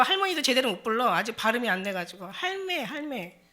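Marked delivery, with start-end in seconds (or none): 2.3-3.4 put-on toddler calling grandma. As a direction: coo it like a little one. Toddler can't pronounce halmeoni.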